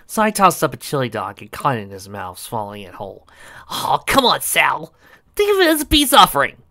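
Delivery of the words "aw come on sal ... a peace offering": high, loud coaxing; pleading. Acted. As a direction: wheedle her, big and eager. Sonic coaxing Sally, loud.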